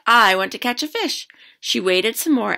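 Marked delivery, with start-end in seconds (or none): 0.1-1.3 put-on higher, louder hopeful girl; eager kid. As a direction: call out hopefully. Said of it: "and said".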